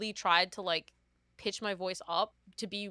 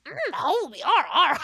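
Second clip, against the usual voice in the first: breathy moan; 8 semitones higher, 8 dB louder than usual. Retold or imitated. Acted moaning quote.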